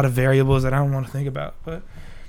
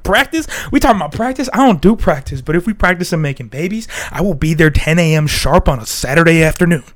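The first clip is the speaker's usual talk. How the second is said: Allen Iverson; 4 dB louder than usual. Retold or imitated. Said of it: "A I was like".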